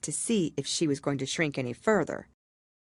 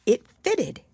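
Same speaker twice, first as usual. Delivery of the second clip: delighted; 8 semitones higher, 6 dB louder than usual. A narrator's reading. Narrator's delight at key fitting.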